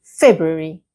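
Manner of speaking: February said as "Feb-u-ary", first R dropped; careful model February, R after the B left out; February without first R. Shown as a demonstration. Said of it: "do not pronounce the R after the B".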